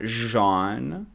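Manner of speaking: French "zhahn", stretched out; French-sounding Jean. Shown as a demonstration. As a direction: repeat Jean in the accidental French way. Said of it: "The accent jumped out".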